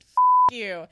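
a long, high, loud F then flat you; drawn-out greeting. Retold or imitated. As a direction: sing the F out high, drop the you. Gym greeting joke.

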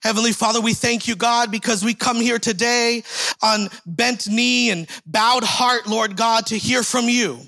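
building, fervent prayer voice that rises toward the middle; public prayer. Acted. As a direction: pray over the congregation, lifting up toward the middle and settling at the amen. Leads a prayer.

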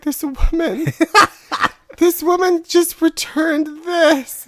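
very high, squealed mock complaint; mock hysterical cashier. Cashier tells the manager about the dead bird, mock hysterical. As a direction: squeal it like a panicked cashier, drawn out at the end.

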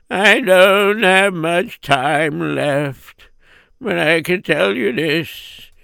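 slow, weak voice of a dying mother. Acted. Dying mother gives her final words, slow. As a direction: draw each word out like her last breath.

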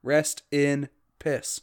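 slow, deadpan mock solemn; mock eulogy. Mock solemn reply to a dead accent joke, slow and deadpan. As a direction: say it like a fake graveside farewell. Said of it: "I took mine out back and shot it".

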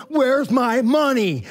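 very slow, drawn-out menacing demand; choking demand. Retold or imitated. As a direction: drag every word out while throttling him. Grabbed him by his throat.

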